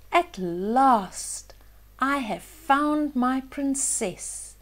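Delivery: slow, lightly voiced happy prince; joyful prince. Prince finding Cinderella, slow glad mild prince voice. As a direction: savour it like a relieved prince. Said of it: "said the handsome prince".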